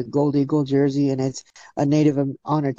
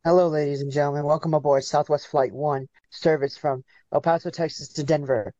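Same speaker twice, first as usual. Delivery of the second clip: cheerful in-flight welcome speech; flight attendant announcement. Pretend. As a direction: announce it like cabin crew over the PA. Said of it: "I would love for you to just keep going".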